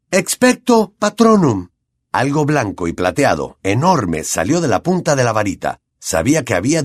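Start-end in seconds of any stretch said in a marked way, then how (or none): 0.1-1.7 high, loud and slow incantation; shouted spell. A narrator's reading. Harry casts at the dementors, loud slow shout. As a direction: hurl the spell out with force. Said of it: "sacó la varita y gritó".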